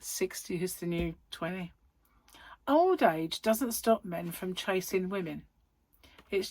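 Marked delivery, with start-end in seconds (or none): 0.0-1.7 unvoiced whisper; whispered quote. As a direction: whisper it cheekily. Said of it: "she said".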